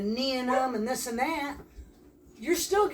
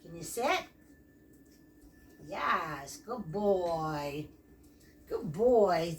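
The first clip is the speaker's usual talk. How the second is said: ordinary talk, nothing marked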